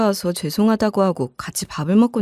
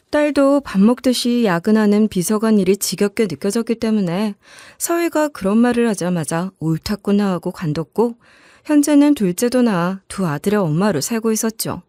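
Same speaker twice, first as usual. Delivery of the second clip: plain reading voice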